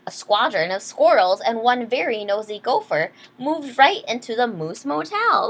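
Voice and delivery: lively read-aloud storyteller; story narration. Acted. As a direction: read it like a bedtime picture book. Reads picture book aloud.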